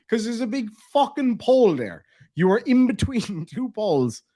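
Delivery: mock fed-up scolding; exasperated. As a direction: spell it out to a hopeless driver. Retold reply to stuck driver.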